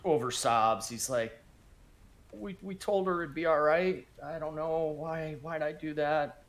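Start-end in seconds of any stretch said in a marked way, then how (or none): 2.3-6.4 a light touch of crying, voice lifted; half-hearted sob through regret; mock sobbing. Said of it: "he's crying and, like, over sobs".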